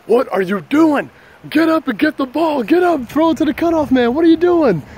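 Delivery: high, loud holler across the ballfield; worked-up shouting, pitched high; retold yelling. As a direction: yell exasperated orders at a teammate. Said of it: "yelling at some".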